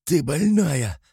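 indignant cry. A narrator's reading. Fight, he accuses her.

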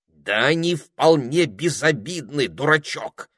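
slow, impatient reply. A narrator's reading. Parrot answering the ermine impatiently. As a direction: sigh it out impatiently. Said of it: "нетерпеливым тоном ответил попугай".

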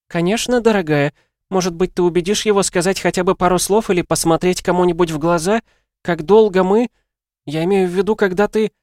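high, excited woman's voice; breathless friend overwhelmed with news; flustered Helen. Acted. Helen on the phone to Diana, high and flustered.

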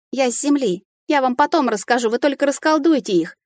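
a touch of sobbing through the promise. A narrator's reading. Heroine pleading with the fairy, lightly tearful. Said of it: "всхлипнула я".

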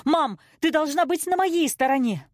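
high, heated protest; crying out. A narrator's reading. Daughter demands mother take her side, crying out. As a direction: cry it out, high and hurt. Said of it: "закричала я".

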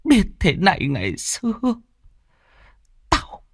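put-on high, wailing elderly outrage; furious old mother. A narrator's reading. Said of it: "nghe con nói mà tức điên lên".

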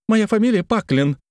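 high, loud correction; exasperated. Acted. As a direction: lose patience and insist. Paklin correcting him, exasperated.

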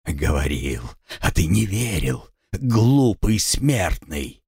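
slow hissed vampire taunt; hissing feral vampire. Acted. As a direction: drag it out, hissing with contempt. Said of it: "прошипел вампир".

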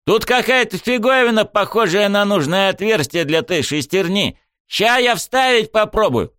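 a friend fiddling with a gadget, eager; eager buddy voice. A narrator's reading. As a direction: sound busy and excited. Ryoji's eager voice.

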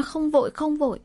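indignant mocking echo. A narrator's reading. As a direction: echo "không vội, không vội" with exasperated scorn.

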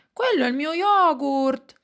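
put-on high, loud little-girl protest; grido di bambina. A narrator's reading. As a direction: yell it high like an indignant child. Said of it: "grida Carlotta". (strillo acuto di protesta)

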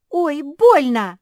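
high, very loud, drawn-out squeal of pain; hurt little pug shrieking. Acted. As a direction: yelp it out as if bitten. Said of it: "взвизгнула та".

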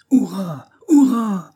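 high, rising pair of hurrahs; echoed cheer. A narrator's reading. Companions echoing the captain's cheer in battle, loud cry. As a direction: cheer back loudly, the second bigger. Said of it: "répétions-nous après lui".

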